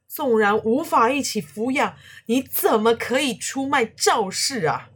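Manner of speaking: loud, high, furious questioning; angry accusation. A narrator's reading. Old man confronts the betrayer, still furious. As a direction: demand an answer in rage. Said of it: "破口大骂".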